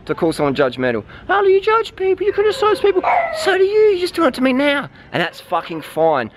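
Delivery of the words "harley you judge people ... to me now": high put-on whiny critic voice; mocking critic voice. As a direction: mimic a nagging accuser, pitched way up. Mocking critics who accuse him.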